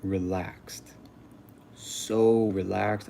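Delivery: very drawn-out, sighed words. Retold or imitated. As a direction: imitate melting into total ease, slowly. Retold total relaxation while dying.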